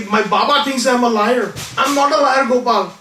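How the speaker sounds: mildly acted boyish distress; imitated tearful plea. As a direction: plead like an upset child. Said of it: "Again he starts crying".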